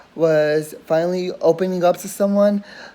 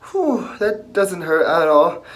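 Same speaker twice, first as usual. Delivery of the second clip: tearful voice breaking, slow; forcing words out through tears; choked-up sarcasm while crying; slower than usual. Real, not acted. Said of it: "I'm crying".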